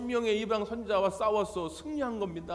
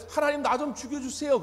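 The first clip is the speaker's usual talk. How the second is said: higher, pleading cry to God; a despairing prophet's plea, pitched up; Elijah begging God; 8 semitones higher, 4 dB louder than usual. Acted. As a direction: beg God to let you die.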